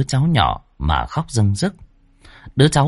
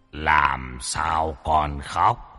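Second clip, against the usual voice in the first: low, soft, very slow deity voice; solemn fairy-god voice; 5 semitones lower, 6 dB quieter, much slower than usual. Acted. Demon posing as Bụt to the old woman, low and slow. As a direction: play the kindly old Bụt, slow and hushed. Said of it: "cố kiềm cái giọng choe choé của mình mà hỏi, giống y như ông Bụt".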